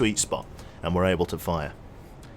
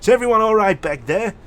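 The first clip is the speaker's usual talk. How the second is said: calm British pilot; 8 semitones higher, 8 dB louder than usual. Retold or imitated. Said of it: "the pilot's like".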